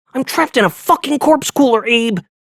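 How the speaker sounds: shouted whisper, pitched very high. A narrator voicing Valdez calling Abe over the phone: whisper-yelling. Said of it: "Valdez whisper yelled over the phone".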